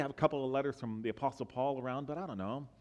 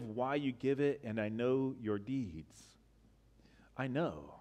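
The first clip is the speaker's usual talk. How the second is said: gentle voice of Jesus. Acted. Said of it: "says Jesus".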